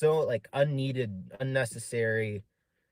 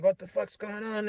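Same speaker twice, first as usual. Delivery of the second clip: retold yelling; 10 semitones higher than usual. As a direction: act out yelling at him without real volume. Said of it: "I was, like, yelling at him".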